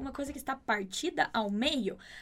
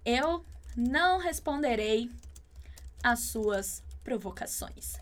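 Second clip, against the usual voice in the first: serene and composed. Acted. Answering a friend about a provoking coworker, serenely composed. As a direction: say it slowly, totally above it all. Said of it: "Bem pleno ou plena".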